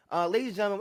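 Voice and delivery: loud, high New York announcer; hammed-up New York show intro; New York accent. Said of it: "sorry for the poor New York accent from me".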